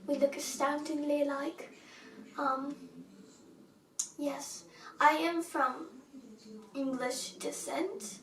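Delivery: put-on British alter ego accent. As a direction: pose as a British cousin, British accent. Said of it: "become a British person".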